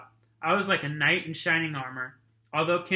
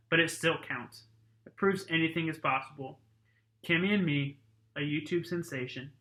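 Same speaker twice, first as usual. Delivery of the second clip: steady read-aloud narration voice; story narration. A narrator's reading. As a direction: read it like a chapter to the class. Reads a novel to class.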